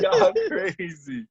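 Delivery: slow, high words through real laughter; can barely get it out for laughing. Real, not acted. Storyteller cracking up at his teasing friends, laughing.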